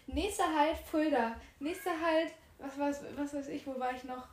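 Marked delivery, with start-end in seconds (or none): 0.1-2.3 train announcement. Retold or imitated. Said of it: "weil der Bahn gibt immer".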